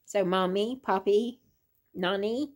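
"Mommy, Poppy, Nani" each ending in an ee sound. Shown as a demonstration. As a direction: let each name end on a clear ee: Mommy, Poppy, Nani. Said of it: "a E on the end of it".

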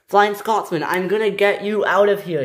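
high, loud reassurance; calling out. Acted. Harold promising rescue, high loud calling. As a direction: call over to the stranded engine.

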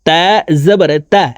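তা said with a thin, light t; thin letter. Shown as a demonstration. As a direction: keep the t of তা light. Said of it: "তা পাতলাভাবে উচ্চারণ করে পড়তে হবে".

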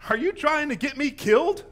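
loud, alarmed challenge; demanding. A narrator's reading. Witch to the disguised Saul, demanding. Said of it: "the woman demanded".

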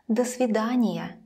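"До свидания" with a brief "duh"; reduced do. Shown as a demonstration. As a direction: shorten the vowel of до in "До свидания". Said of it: "it never sounds like до".

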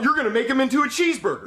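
fast, sharp order; angry boss. Acted. Boss overruling the worker, fast angry order.

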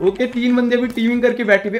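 high, loud frantic protest; outraged at being ganged up on; panicked outrage. Real, not acted. Players teaming against him.

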